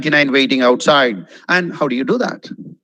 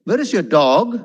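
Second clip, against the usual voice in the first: rising question tune up to "dog"; teacher's demo question, lifted on "dog"; question intonation. Shown as a demonstration. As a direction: ask it with "dog" going up. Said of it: "if it's a question".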